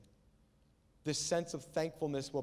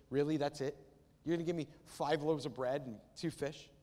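incredulous, let-down questioning; mock complaint. Imagined Jesus complains to God about five loaves, mock disbelief. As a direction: query each item as if short-changed. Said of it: "that sense of loss and complaint".

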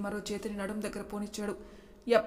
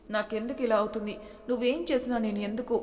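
trembling voice. Acted. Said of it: "ఆమె గొంతు వణుకుతుంది".

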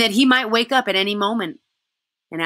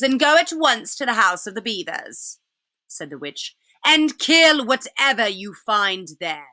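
commanding witch; 4 semitones higher than usual. Acted. Witch orders the wolf.

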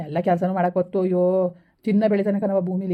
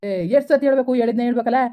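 irritated; 3 semitones higher, 3 dB louder than usual. Acted. Husband irritated at repeated question.

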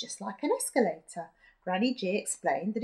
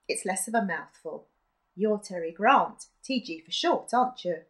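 put-on old woman voice; 5 dB louder than usual. Granny G character voice.

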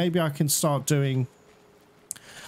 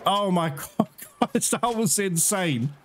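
high, giddy relief; thrilled gamer after the fight; elated; 4 semitones higher than usual. Real, not acted. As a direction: gush with delight that it survived. Elated after pet survived.

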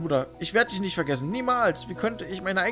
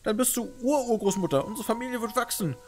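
loud, high tearful pleading; tragic heroine sorrow; 10 semitones higher, 5 dB louder than usual. Acted. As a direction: hold her back with hope. Pleading to dying great-grandmother.

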